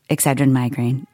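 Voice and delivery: low, hushed product sign-off; mock ad tagline. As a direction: murmur it like a spoof commercial tag. Mock sponsor tagline after thanking product.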